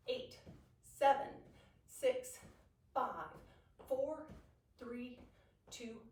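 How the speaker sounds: loud, fast pumped-up count; energetic fitness coach counting; aerobics instructor. Real, not acted.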